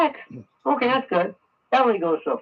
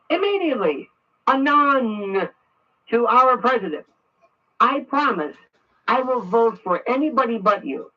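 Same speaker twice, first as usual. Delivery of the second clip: dictating an angry letter. Shown as a demonstration. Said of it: "you write something like this".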